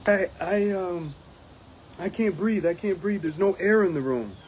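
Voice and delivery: imitating a breathless worker, lightly done; mock panicked complaint. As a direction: play the panicked member short of air. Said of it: "You say".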